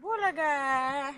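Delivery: put-on spring the surprise on the baby; playful stretched bulaga; peekaboo. Peekaboo game.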